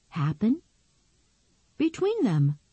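put-on girl's voice. Nicky evasive.

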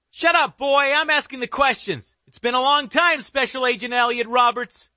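high, mocking villain voice; dark whisper behind you. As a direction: taunt the old agent with menace. Killer taunts the agent.

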